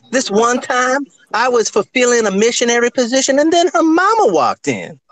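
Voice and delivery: Ladies' Man voice. Retold or imitated. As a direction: tell it like a smug seducer. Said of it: "I'm gonna do another impression since we just talked about the ladies' man".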